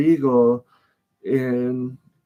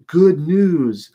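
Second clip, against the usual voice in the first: higher and louder, announcing "good news" brightly; eager good news; 5 semitones higher, 6 dB louder than usual. Retold or imitated. Messenger bursting in on David, eagerly announcing. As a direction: herald proudly calling out "good news".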